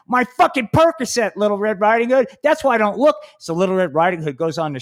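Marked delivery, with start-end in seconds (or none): 0.1-3.1 put-on high, squawky old-granny voice; a cranky grandma fussing over her pills; hammed-up granny; Grandmama voice. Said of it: "Grandmama's like".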